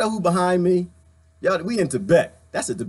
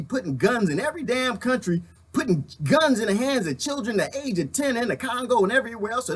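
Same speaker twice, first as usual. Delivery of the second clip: hillbilly voice; 5 semitones higher than usual. Acted. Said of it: "I'm gonna call him Jeffro".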